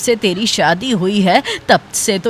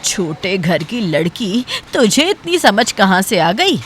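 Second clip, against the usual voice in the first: contemptuous sneer; 3 dB quieter than usual. Acted. Mother-in-law belittles daughter-in-law.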